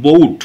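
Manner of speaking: বউট drawn out slowly with an o-u glide; slow careful demo. Shown as a demonstration. Teacher slowly modelling বউট for students. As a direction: spell out বউট slowly, gliding o into u. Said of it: "আমরা উচ্চারণ করছি বউট".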